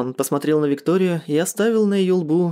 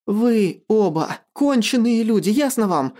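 raised pitch, indignant snarl; angry snarl; 6 semitones higher, slower than usual. A narrator's reading. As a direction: spit out the accusation as a narrated outburst. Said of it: "прорычала Наташа".

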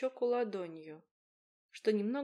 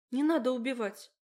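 pleading cry; 4 semitones higher, 7 dB louder than usual. A narrator's reading. Begging him not to kill.

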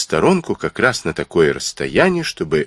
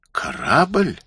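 word jumps up high in disbelief; startled cry of surprise; astonished exclamation; 8 semitones higher than usual. Acted. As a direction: gasp it out, caught off guard. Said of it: "воскликнул доктор".

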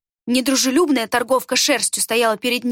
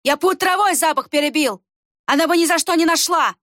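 higher, louder insistence; angry denial; 6 semitones higher, 3 dB louder than usual. A narrator's reading. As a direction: insist hotly. Брух denies in anger. (злое отрицание, выше и громче)

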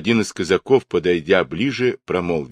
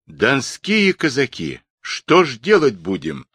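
raised, mounting indignation; high-pitched angry appeal; angry cry; 6 semitones higher, 3 dB louder than usual. A narrator's reading. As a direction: cry out to the crowd, boiling up. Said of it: "закипая гневом, крикнул Каторжный".

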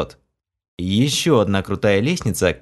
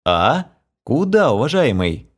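suspicious; 4 semitones higher than usual. Acted. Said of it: "несколько подозрительно осведомился я".

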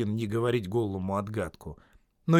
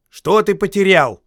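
higher, louder insistent question; insisting call; 9 semitones higher, 11 dB louder than usual. Acted. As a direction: demand an answer. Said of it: "настаивал Бильбо".

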